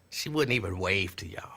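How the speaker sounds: soft unvoiced whisper; whispered tease. Real, not acted. To viewers about the shy girl, whispered. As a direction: lean in and whisper it.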